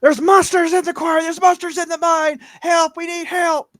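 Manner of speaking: high, loud cries for help; frantic shouted warning at full volume; panicked screaming. Acted. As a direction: scream the alarm as you run down the road. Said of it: "running down that road screaming".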